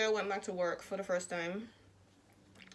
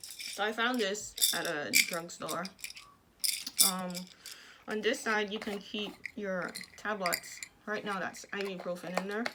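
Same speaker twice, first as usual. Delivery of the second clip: speaking with jaw wired shut; words pushed through clenched teeth; talking through teeth. Real, not acted. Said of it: "I talk through my teeth".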